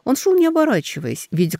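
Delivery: ordinary delivery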